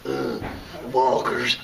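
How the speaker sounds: a hint of a Southern TV tough guy; fake Southern accent. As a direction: lightly imitate a hammed-up Southern drawl. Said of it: "that fake Southern accent he has".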